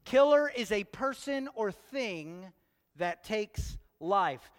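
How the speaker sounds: slow and emphatic, the second time round; slow, deliberate definition. Shown as a demonstration. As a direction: spell it out slowly so it sinks in. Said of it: "Is that simple enough?".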